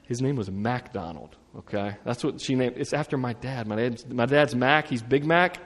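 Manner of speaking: ordinary talk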